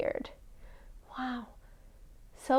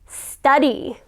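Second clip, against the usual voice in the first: call-and-response; 4 dB louder than usual. Shown as a demonstration. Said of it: "Okay, everybody say".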